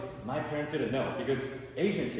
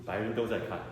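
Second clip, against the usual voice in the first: solemn dad in Chinese; 7 semitones lower, 5 dB quieter than usual. Retold or imitated. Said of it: "He goes".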